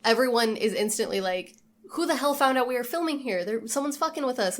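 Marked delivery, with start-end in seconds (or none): 1.9-4.6 imitated indignation, pitched up; higher-pitched mock outrage; indignant alarm. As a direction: act out a crew's startled suspicion. Voicing the crew's startled suspicion.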